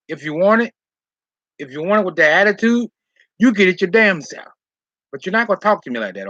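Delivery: retold telling-off. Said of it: "I went off on him".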